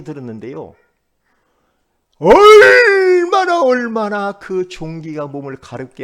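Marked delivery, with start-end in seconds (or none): 2.2-3.6 얼마나 stretched very long, high and loud; drawn-out emphasis. Real, not acted. Preacher showing how badly boils itched, 얼마나 drawn out in a high shout. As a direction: cry out 얼마나, holding the first syllable. Stressing how unbearable the itch was.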